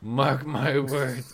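slow, ominous pirate warning. Retold or imitated. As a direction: drag out a dark warning. Quoting ominous pirate line.

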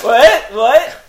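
loud, high, startled what; mock alarm. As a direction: yelp it out in fake alarm.

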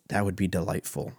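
a hint of a defeated dad, quiet and soft; broken soul. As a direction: say it like a worn-out father, barely there. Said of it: "like a broken, a broken soul".

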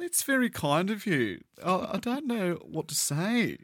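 high-pitched, put-on Aussie accent; mock-modest in an exaggerated Australian accent. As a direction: play at being a broad Australian. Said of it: "able to do a passable Aussie accent".

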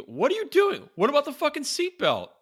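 very high, loud screeching yell; quoted yell. Retold or imitated. Acting out the windshield scene for his friend, shrieking. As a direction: shriek it like the panicked character. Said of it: "he go".

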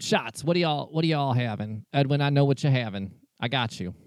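lightly put-on Southern barkeep; a hint of folksy Southern twang; Southern bartender accent. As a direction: take the order in a loose Southern accent. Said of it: "I don't know what this accent is".

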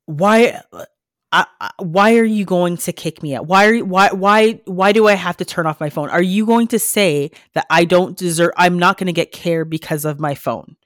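mild mock hysteria, stammered protest; imitating hysterical mother. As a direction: retell a frantic plea, halting and repeating.

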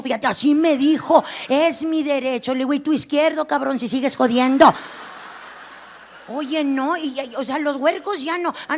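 ordinary talk

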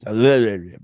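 Hayakaka, tripping over the name; tongue-twisted name. Shown as a demonstration. Joking about a hard name, tongue-twisted. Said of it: "Uh, the tongue twister".

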